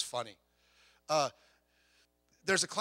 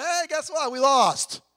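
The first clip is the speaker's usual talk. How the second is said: loud, higher angry announcement; angry coach; 9 semitones higher, 8 dB louder, slower than usual. Retold or imitated. Coach scolding his team after the lost game, loud and angry. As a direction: tell them off hard. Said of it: "I said".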